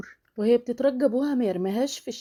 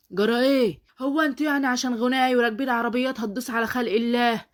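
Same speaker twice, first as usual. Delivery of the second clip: louder, higher indignant scolding; angry rebuke; 3 semitones higher, 4 dB louder than usual. Acted. Bystander berating the driver who hit her, loud and indignant. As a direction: shame the reckless rich driver.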